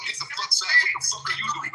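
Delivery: imitating a rough agent barking orders; hammed-up shout at the public; mock aggressive cop yell. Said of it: "the way they're interacting with the public".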